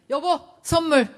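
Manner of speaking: high, loud pretend-husband call; child playing dad. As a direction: present it proudly like a kid playing daddy. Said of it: "딱 오더니 뭐예요?".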